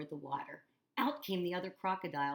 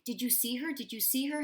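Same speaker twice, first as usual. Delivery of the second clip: higher, louder excited cry; 8 semitones higher, 3 dB louder than usual. A narrator's reading. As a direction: burst out eagerly. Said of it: "Hector cried out".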